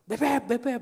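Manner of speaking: mildly panicked name-calling; panicky mother's call. Retold or imitated. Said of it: "paniknya lebih ini".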